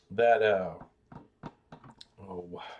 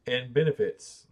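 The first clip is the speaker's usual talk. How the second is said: usual speaking voice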